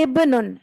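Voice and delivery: ابنن said slowly, each sound spelled out; slow recitation model; careful word demo. Shown as a demonstration. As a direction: drill ابنن syllable by syllable for the class. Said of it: "یہ لفظ ہے ابنن".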